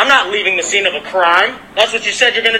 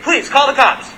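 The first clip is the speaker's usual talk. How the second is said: high-pitched heated challenge; real angry taunt; angry dare; 4 semitones higher, slower than usual. Real, not acted. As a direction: throw the dare right at him. Daring neighbor to call police.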